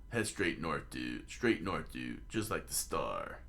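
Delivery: slightly low, laid-back dude talk; easygoing, lightly put-on dude voice; lightly voiced dude. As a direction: drop low on each DUDE. Luffy's muttered directions in forest.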